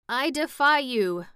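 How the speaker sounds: loud, high croak of defiance; croaking old hag. A narrator's reading. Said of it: "croaked the old hag".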